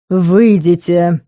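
slow, icy command; a dragon ordering rivals out, icy. Acted. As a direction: freeze them out, word by word. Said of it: "ледяным голосом проговорил Фелис".

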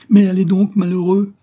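high, loud impatient shout; urgent cry. A narrator's reading. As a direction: shout to send him running. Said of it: "cria Jane en poussant Kenzius".

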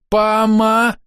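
high, drawn-out cry cut short; high call broken off. A narrator's reading. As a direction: cry out, then choke it off mid-word. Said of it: "Крик захлебнулся на полусловии".

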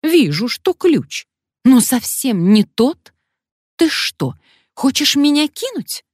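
man suspects Alyona of betrayal; suspicious anger. Acted. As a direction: accuse her of cheating. Man suspects a double-cross.

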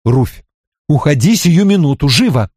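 firm motherly command; no-nonsense order. Acted. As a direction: order the child out, leaving no room to argue. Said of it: "Когда говорят таким тоном, спорить не приходится".

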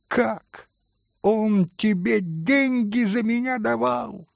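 high, shocked hysterical cry. Acted. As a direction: shriek in disbelief. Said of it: "истерически вскричала Грушенька". (истерический вскрик, очень высоко)

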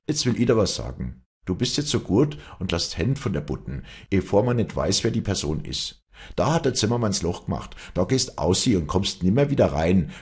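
lightly voiced stern head of the house; stern older brother. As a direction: lay down the law to the younger one. Older brother lays down law.

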